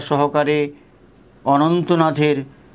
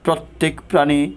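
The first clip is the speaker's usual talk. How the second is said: devotional recitation. Acted. Reading Thakur's call to the disciples aloud, devotional recitation. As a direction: read it like a sacred letter, full of longing.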